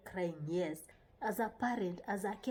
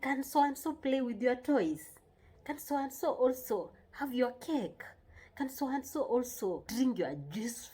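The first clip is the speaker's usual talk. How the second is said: higher-pitched coaxing question; friendly asking; 4 semitones higher than usual. Shown as a demonstration. Parent asking a child to share toys, friendly asking. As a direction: ask a child nicely, pitch lifted. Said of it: "You're supposed to, to say".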